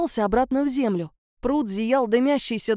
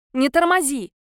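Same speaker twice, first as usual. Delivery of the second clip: louder, urgent call; urgent shout; 3 semitones higher, 4 dB louder than usual. A narrator's reading. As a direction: yell at her to hurry up. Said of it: "крикнула Вера".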